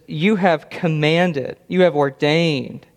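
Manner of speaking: slow, deliberate weight on "You" in each phrase; stress on YOU. Shown as a demonstration. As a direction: lean on "You" at the start of each clause. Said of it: "There's an emphasis on the word here".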